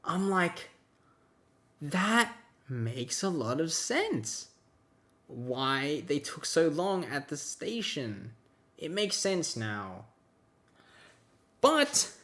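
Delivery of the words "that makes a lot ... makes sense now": sarcastic. Retold or imitated. Sarcastic quote to friend.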